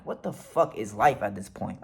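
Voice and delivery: low, soft muttered disbelief; bemused inner voice. Retold or imitated. Driver thinking while following police orders, bemused aside. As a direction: think it aloud, dropped down low. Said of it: "kinda laughing in my head".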